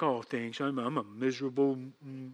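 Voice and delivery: low, soft mock humility; humble and shy. Person faking humility when sin comes out, meek low mumble. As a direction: shrink into a self-pitying mumble. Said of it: "you act all humble and shy".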